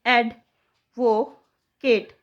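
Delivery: stretched out syllable by syllable; drawn-out teaching demo; slow syllable split. Shown as a demonstration. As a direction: break the word into slow pieces. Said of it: "तोड़िए इसको भी टुकड़ों में".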